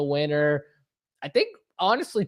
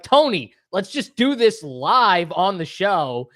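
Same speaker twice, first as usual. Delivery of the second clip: retold yell; slower than usual. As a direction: re-enact yelling at Tony, only lightly raised. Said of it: "I just yell at him".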